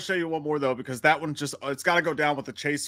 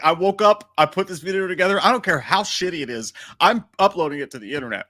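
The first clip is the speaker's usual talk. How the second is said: louder, pumped-up voice of the uploader; mock defiant uploader; 4 semitones higher, 4 dB louder than usual. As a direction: announce it proudly and loud. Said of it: "It's like".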